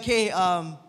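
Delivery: lightly acted nervous suitor; awkward Hosea. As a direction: play a shy prophet fumbling his words. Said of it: "He's like".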